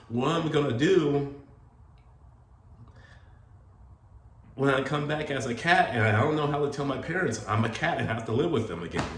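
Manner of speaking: high, loud, hammed-up panic about coming back as a cat; mock-dramatic wife. Wife's dramatic worry retold.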